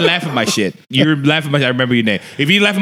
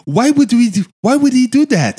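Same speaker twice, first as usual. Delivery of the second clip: higher-pitched puzzled protest; mock bafflement; 7 semitones higher, 3 dB louder than usual. Comic retelling of baffled onlookers, mock bafflement. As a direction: mimic an incredulous onlooker.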